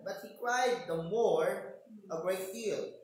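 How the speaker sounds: preacher building up the blind man's cry. Retold or imitated. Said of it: "Pero sabi pa rin".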